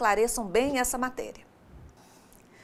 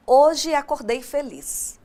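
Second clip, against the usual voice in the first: plain declarative example; 3 semitones higher, 3 dB louder, slower than usual. Shown as a demonstration. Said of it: "Querem um exemplo?".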